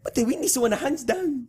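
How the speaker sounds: badly faked Irish lilt; Irish accent. Co-host reading list in failed Irish, mock Irish accent. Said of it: "It's more Italian".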